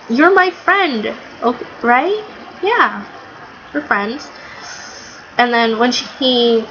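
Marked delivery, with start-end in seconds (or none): 0.1-4.3 Luffy. Retold or imitated. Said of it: "he was like".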